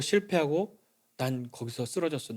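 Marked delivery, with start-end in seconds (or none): 1.2-2.3 quiet confession. Retold or imitated. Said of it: "선언한 그 자리에서".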